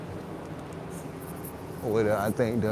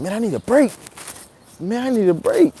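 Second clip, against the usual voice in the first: imitating comedian; 9 semitones higher than usual. Comedian pleading on stage.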